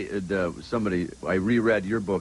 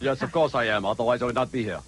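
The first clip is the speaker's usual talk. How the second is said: mildly disguised stuffy voice; put-on guest voice. Mystery guest hiding his voice from the panel, lightly put on. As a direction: keep the disguise going, lightly. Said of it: "I do my Brian Brunschweiger voice".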